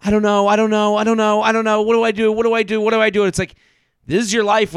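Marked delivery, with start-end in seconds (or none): 0.0-3.2 mock crying. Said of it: "while she's crying on his lap going".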